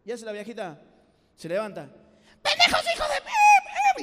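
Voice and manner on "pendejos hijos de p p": screaming insults, much higher and louder, dragged out; furious insults. Retold or imitated. Old lady hit by a ball screams at the boys, shrill fury. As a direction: explode at the kids in a shrieking rage. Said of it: "y empezó a insultar así".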